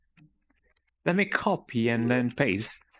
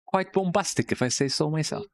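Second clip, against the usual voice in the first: put-on hammy British accent, pitched up; British impersonation; 6 semitones higher than usual. Streamer playing up a British accent for chat. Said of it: "why I'm doing a British impersonation".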